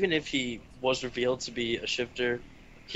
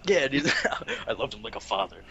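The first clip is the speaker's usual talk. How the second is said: giggling through the words; laughing. Real, not acted. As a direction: laugh as you say it. Laughing while quoting.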